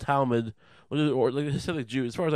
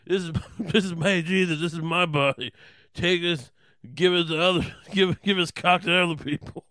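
hammed-up brash mimicry, higher and louder; Judas Dice Clay; 5 semitones higher, 4 dB louder than usual. Judas parodies Jesus sharing bread, laughing mock Dice voice. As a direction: badly imitate Dice, cracking up as you go. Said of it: "He's like".

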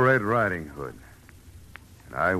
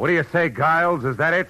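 accusing; 11 semitones higher, 5 dB louder than usual. Acted. Confronting the killer.

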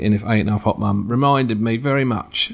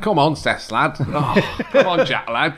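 Manchester accent; slower than usual. Shown as a demonstration. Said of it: "this is my northern face".

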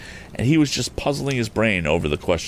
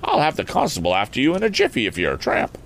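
higher-pitched country farmer threat; farmer's voice; 8 semitones higher than usual. Acted. Farmer threatening a suspected tramp with the constable, high rustic warning. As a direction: warn off a tramp in rustic tones. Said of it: "unmistakably the voice of a farmer".

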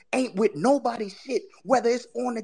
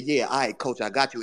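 mock eager player; 11 semitones lower than usual. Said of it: "And you said".

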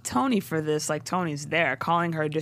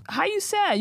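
much higher, scoffing disbelief; mock dismissive relative; 12 semitones higher than usual. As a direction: belittle the sadness.

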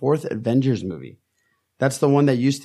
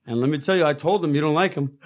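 a hint of crooner-like character voice; Haz. Co-host keeps up his Haz act, light impression. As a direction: lightly imitate a crooner-ish talker. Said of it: "I'm gonna do my Haz voice".

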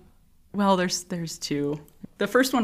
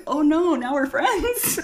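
high, slow comic dread; mock dismay; 11 semitones higher, 4 dB louder, slower than usual. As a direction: act out a horrified realization, half amused. Retold dismay of young nurse.

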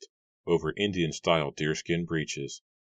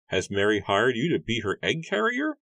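much higher, put-on voice for the farmer; gruff farmer Matthew; 7 semitones higher than usual. A narrator's reading. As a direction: play the grumpy farmer, pitched way up. Matthew mocks the young man.

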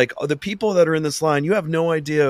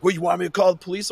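mock threat; 6 semitones higher, faster than usual. Agent threatens.

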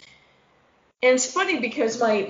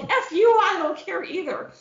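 mock jaded dismissal; 8 semitones higher than usual. Her jaded self now.

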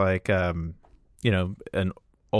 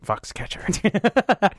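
high, stretched-out word breaking into laughter; higher, slow, laugh spilling out; 10 semitones higher, much slower than usual. Real, not acted. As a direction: crack up on the title. Sets up pun, laughing.

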